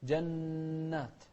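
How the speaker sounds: slow جنات with a long held n; chanted جنات, sustained nasal; doubled nun. Shown as a demonstration. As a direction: lean into the hummed double n of جنات. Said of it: "التشديد هني".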